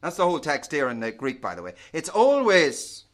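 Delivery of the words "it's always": "always" drawn out and loud; stress on always. Real, not acted. Preacher stressing a word from the text, "always" stretched out. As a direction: punch "always", slow and raised.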